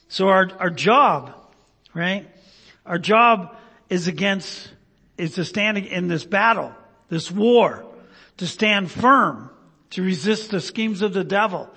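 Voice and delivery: earnest pulpit preaching. Acted. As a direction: drive each phrase home to the congregation. Preaching at full force.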